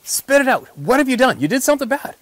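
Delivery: mock pleading yell, high and loud; hammering demand. Guide hounding the hunter to confess, mock shouted pleading. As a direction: badger him to confess, all in fun. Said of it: "I'm hammering on him basically the whole hunt saying".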